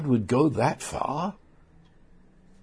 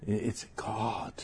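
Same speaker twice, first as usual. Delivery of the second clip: "God" said slowly and much softer, with reverence; slower, weightier retake; 3 semitones lower, 11 dB quieter than usual. Shown as a demonstration. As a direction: let "God" land slowly and quietly. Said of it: "I said that too quickly".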